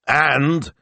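high, anxious prompt; urging. A narrator's reading. Shop owner presses his assistant for news, urging. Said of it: "Signor Speranza urged".

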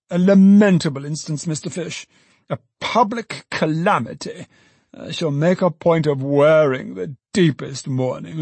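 high, theatrical mourning; high-pitched pious dismay; pompous lamenting. A narrator's reading. Pompous alderman mourns banker.

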